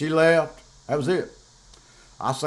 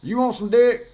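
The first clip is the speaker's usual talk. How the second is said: higher-pitched, crude mock snap at the ex; mock crude outburst; 6 semitones higher than usual. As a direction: retell a crude retort, pitched up. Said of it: "I like".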